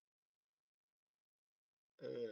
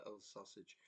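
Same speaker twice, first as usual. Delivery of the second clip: much softer, mumbled under the breath; 3 semitones lower, 12 dB quieter than usual. Retold or imitated. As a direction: mumble it, barely audible, half asleep. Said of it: "I sort of mumbled it".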